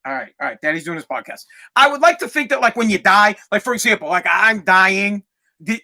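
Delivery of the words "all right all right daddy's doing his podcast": hushed aside. Real, not acted. Daughter walks into recording.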